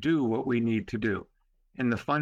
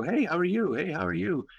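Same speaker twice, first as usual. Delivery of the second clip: higher-pitched, cheery greeting; trying to be happy; 5 semitones higher than usual. Retold or imitated. Visitor greeting people in wheelchairs, trying to be happy. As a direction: imitate your own upbeat hello. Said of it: "trying to be happy".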